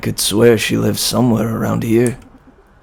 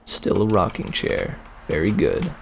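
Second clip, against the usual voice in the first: whispered aside, softer; 2 semitones lower, 7 dB quieter than usual. Real, not acted. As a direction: breathe it under your breath. Muttering to self.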